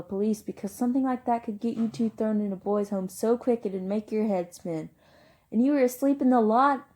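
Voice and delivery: angry scolding. Acted. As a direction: tear into him like a worried older brother. Older brother scolding in acted quarrel.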